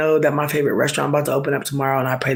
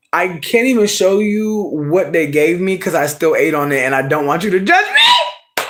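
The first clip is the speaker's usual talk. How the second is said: embarrassed shout; 4 semitones higher, 4 dB louder than usual. Real, not acted. Loud embarrassed complaint.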